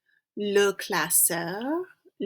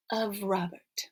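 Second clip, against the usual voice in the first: whispered aside; 4 dB quieter than usual. Shown as a demonstration. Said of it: "literal translation trails off".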